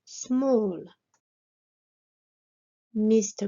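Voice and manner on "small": "small" as "smawl", with a falling tune; careful pronunciation. Shown as a demonstration. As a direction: set "small" apart, long "aw" vowel, falling. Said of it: "mais qui se prononce".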